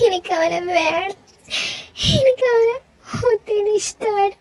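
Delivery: sobbing confession. Acted. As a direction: confess the love through sobs. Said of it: "ഇവളെന്തിനാ ഇങ്ങനെ വാവിട്ട് കരയുന്നേ?". (കരഞ്ഞുകൊണ്ട് തുറന്നു പറയുന്നു)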